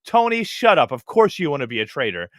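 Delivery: a hint of an annoyed friend waving him away; mock dismissive scold. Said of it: "somebody being like".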